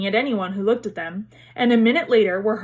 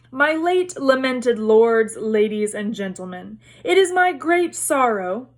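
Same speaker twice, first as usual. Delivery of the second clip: slow, grand oratory; formal speech. Acted. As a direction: address the hall solemnly. Nick's formal speech opening.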